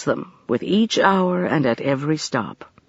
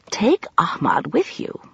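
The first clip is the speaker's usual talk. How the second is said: whispered suggestion; 5 semitones higher than usual. A narrator's reading. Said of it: "she suggested".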